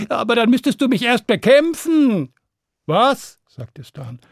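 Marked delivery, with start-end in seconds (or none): 0.1-2.3 high, swelling dragon voice; challenging dragon. Acted. Dragon daring Stan to fight it, challenging. 2.9-3.4 high, indignant exclamation; incredulous. Acted. Stan answering the dragon's challenge, incredulous.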